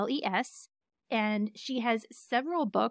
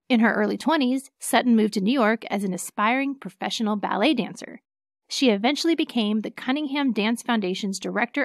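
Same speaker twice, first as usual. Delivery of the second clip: polished, measured announcer-like read; bio read-aloud; 4 dB louder than usual. Acted. Co-host reading a TV bio for listeners, formal read-aloud. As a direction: read the bio out clearly, phrase by phrase.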